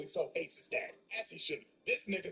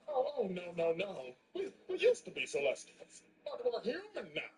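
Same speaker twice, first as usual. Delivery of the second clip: flustered dad; 8 semitones higher than usual. Retold or imitated. Dad voiced flustered denial.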